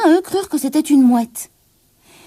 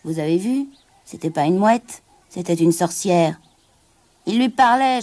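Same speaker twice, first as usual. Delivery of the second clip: sailors whispering. Acted. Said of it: "Ils chuchotaient".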